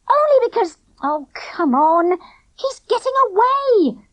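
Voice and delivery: high, loud urgent cry. A narrator's reading. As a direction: hurry him along in a rush. Girl chasing, urgent.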